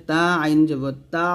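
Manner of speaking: "তা" closed with a squeezed throat sound; pressed ain. Shown as a demonstration. Teacher showing a difficult letter, throat pressed. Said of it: "একটু চাপ দিয়ে বলতে হবে".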